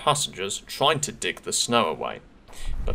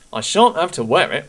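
high, louder chant of glee; gleeful engine; 8 semitones higher, 6 dB louder than usual. Acted. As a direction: sing it out pleased to be free. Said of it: "he puffed".

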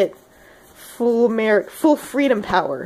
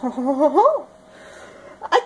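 laughing; 5 semitones higher than usual. Real, not acted. Laughing at failed laugh impression.

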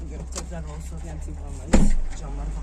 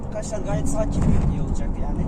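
higher, faster dry irony; sarcastic; 5 semitones higher, 7 dB louder, faster than usual. Real, not acted. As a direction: toss it off with sarcasm. Ironic remark on the rough ride.

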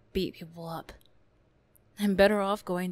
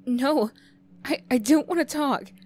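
higher, louder, shouted go away; angry yell; 8 semitones higher, 8 dB louder than usual. Acted. Bully yelling at the classmate who tapped her shoulder, furious. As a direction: drive them off with a yell.

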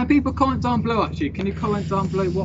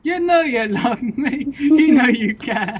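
slow coaxing; 2 semitones higher, 7 dB louder, much slower than usual. Acted. Coaxing friend to eat dog food.

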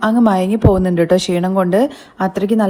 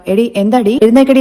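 retold shout; 4 dB louder than usual. Mother-in-law yelling at Revathi to get up, mock shout. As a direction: bark her awake as the angry mother. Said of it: "ഭയങ്കരമായിട്ട് shout ചെയ്യാണ്".

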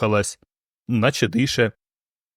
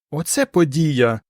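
slow, lightly voiced delight; joyful; 4 semitones higher, slower than usual. A narrator's reading. Ans rejoices to Pol over the cosmonaut's arrival, delighted. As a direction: savour the wonder of it. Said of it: "раділа Анс".

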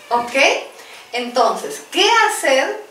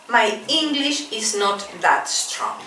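slow model phrase; 3 semitones lower, 4 dB quieter, slower than usual. Shown as a demonstration. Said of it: "Y otra expresión".

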